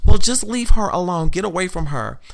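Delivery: loud, high "leave her alone"; mocking the fellow Karen's loud plea; imitating loud plea.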